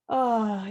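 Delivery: loud, relaxed "ah" sigh; sigh of relief. Shown as a demonstration. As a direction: sigh as the body settles down. Relief of lying down.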